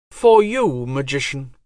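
high, cold divine voice; goddess voice. Acted. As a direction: speak as an aloof goddess. Goddess speaks.

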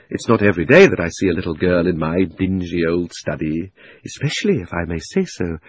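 lightly voiced old gentleman, coaxing; a hint of a smooth, flattering old man; lightly voiced uncle wooing a little girl. Uncle Andrew speaks to Polly.

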